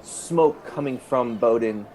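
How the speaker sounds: slow, suspenseful game master narration; dramatic scene narration. Acted. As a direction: let each phrase hang between pauses.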